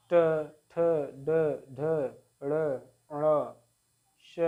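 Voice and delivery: ट, ठ, ड, ढ drawn out singly, tongue touching the palate; slow, separated letters with the tongue turned up; retroflex consonant demonstration. Shown as a demonstration. Teacher showing students tongue-on-palate sounds, demonstrative articulation. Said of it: "जीभ ऊपर touch करता है".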